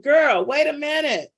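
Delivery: Martin Lawrence. Acted. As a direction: say it like a stunned comedian. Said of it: "In my Martin Lawrence voice".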